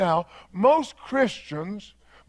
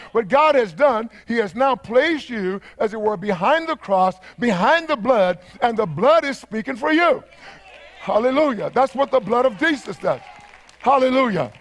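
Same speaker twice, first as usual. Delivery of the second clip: fervent preaching; 3 semitones higher than usual. Real, not acted. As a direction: preach it with rising fervour. Preacher builds to full force.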